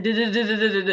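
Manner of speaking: laughing "duh-duh-duh" stammer; mimicked failed attempt. Classmate attempting the Creole phrase, mock babbling. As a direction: imitate someone stumbling over foreign sounds. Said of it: "she tried to do it".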